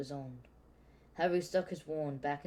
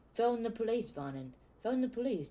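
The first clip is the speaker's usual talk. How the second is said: Petunia screaming; 8 semitones higher than usual. A narrator's reading.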